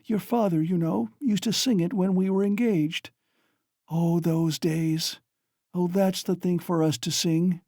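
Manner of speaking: high, rushing delirious chatter; delirious mother recalling a dance and song; feverish excitement. A narrator's reading. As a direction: rave happily in fever. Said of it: "She was violently excited".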